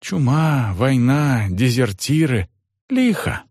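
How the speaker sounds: servant Johan. Acted.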